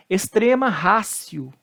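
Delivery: slow ratio, "rásio"; Latin T as C. Shown as a demonstration. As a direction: slowly model ratio with an S sound. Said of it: "O T com som de C".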